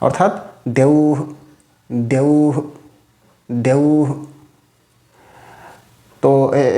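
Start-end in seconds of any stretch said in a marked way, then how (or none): 0.8-4.2 "দেউহু" with held ou and a short hu; visarga as hu. Shown as a demonstration. Teacher repeats the rule's result, demonstrating pronunciation. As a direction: hold ou in "দেউহু", release a brief hu. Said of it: "বিসর্জনের উচ্চারণটা উকার তুল্য হবে".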